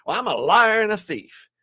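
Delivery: a hint of a gruff old Western hero; lightly voiced John Wayne tough guy; tough cowboy voice. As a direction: put on a bad-to-the-bone cowboy front. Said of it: "put on my John Wayne, Clint Eastwood".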